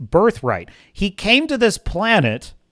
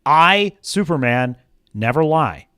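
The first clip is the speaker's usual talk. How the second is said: calm statement; 3 semitones lower than usual. Retold or imitated. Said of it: "what is simply his identity".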